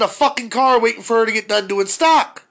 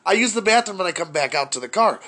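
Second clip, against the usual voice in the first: normal talking voice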